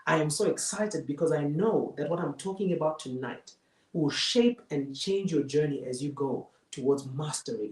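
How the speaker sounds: excited opening, then settling into earnestness; showing excitement. Shown as a demonstration. Host glad the audience joined this evening, mildly excited. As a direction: lift the first exclamation, then ease down. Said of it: "you show your excitement".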